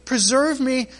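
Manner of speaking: pleading cry. Acted. David crying out to God.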